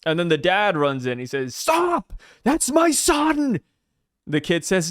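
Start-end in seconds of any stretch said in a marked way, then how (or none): 1.5-3.6 high, drawn-out mock cry; panicked dad. Dad runs in to save his son, mock panicked cry. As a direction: plead in a strained high voice.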